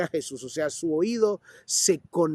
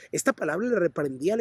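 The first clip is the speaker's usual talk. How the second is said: normal talking voice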